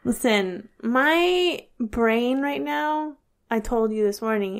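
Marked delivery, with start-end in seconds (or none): 0.8-3.2 slow, foggy. Real, not acted. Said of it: "Swiss cheese".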